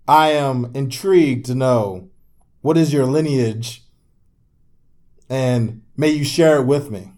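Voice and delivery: a hint of mock grandeur, unhurried; mock-courtly inquirer. Mock-courtly question about lineage.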